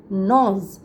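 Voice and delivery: নজ said with a silent g, just naw-z; gnaws pronunciation. Shown as a demonstration. Teacher showing students how to say gnaws, with a silent g. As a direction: say নজ as "nawz", no g sound at the start. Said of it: "জি এর উচ্চারণটা কিন্তু উচ্চ থাকবে".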